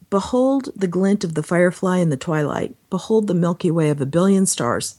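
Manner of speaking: measured reading of sacred prose; devotional reading. Acted. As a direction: read it out like a poetic meditation. Reads devotional aloud.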